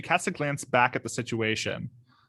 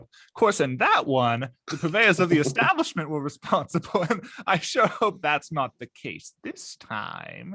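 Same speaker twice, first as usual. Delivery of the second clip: lightly acted, lively character voice; slightly raised pitch, slowing into the last phrase; character finishing her remark; 4 semitones higher than usual. Ida finishing up about a mystery novel, lightly voiced character. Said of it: "the scene cuts back to her finishing up".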